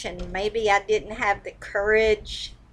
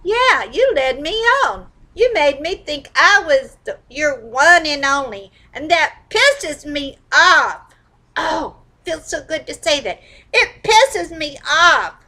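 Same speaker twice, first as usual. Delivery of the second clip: venting anger; 3 semitones higher than usual. Shown as a demonstration. Tapping session, venting at the ex, raised angry voice. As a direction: let rip at whoever jilted you. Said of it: "roaring mad while you're tapping and cussing".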